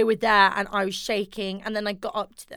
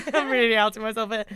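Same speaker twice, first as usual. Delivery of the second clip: laughing through it, faster; 2 semitones higher, faster than usual. Real, not acted. Confessing her fangirl past, she repeats it laughing. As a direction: giggle it out, embarrassed.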